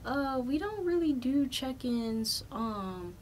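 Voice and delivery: a hint of a hesitant desk agent; mild imitation of a reluctant clerk; airline clerk. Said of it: "He was like".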